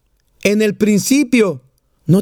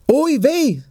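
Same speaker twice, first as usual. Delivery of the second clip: higher-pitched mock sigh of woe; sighed lament; 6 semitones higher than usual. Second Jewish grandmother on the bench, sighed lament. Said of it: "la segunda da un suspiro".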